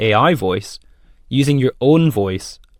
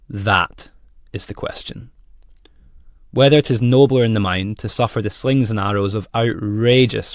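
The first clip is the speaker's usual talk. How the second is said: unhurried Hamlet with long pauses, THAT set apart; dramatic reading. Shown as a demonstration. Presenter records a guide read for the AI voice, measured and dramatic. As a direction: take time over "To be or not to be", weight on "that" and "outrageous". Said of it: "I will read this out the way that I would like Finlay to read it out".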